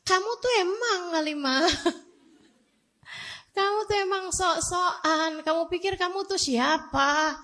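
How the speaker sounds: high-pitched mock scolding of herself; a hint of a nagging inner voice; mocking self-scolding. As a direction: scold yourself teasingly, half laughing. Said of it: "yang saya salahin adalah".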